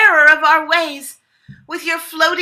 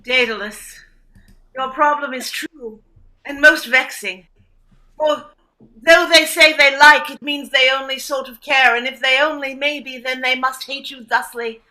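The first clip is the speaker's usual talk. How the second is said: mock olde english. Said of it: "using Shakespearean speak".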